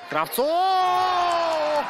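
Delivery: high drawn-out yell of the name; long goal yell. Real, not acted. Commentator yells scorer's name.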